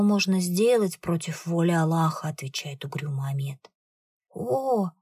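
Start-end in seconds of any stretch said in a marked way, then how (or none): 4.3-4.9 cry of despair. Acted. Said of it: "Крик отчаяния".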